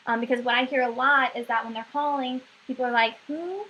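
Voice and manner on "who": mildly bewildered, voice lifting on each question; confused caller. Retold or imitated. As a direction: imitate a baffled customer on the phone. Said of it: "they're really confused".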